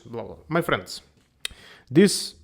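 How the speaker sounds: normal talking voice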